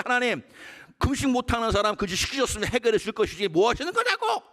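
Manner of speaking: half-sung, laughing mock grievance; laughing complaint to God. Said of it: "막 한탄하고 막 따졌어요". (웃으며 하나님께 따지듯이)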